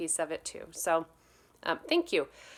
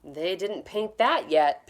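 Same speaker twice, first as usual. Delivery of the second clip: mild shout; 5 dB louder than usual. Acted. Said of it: "Peter shouted".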